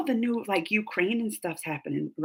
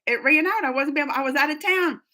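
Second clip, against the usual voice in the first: higher-pitched mild complaint; retold protest; 5 semitones higher than usual. Retelling a plea over the expired screener, mildly protesting. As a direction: plead your case, pitched up.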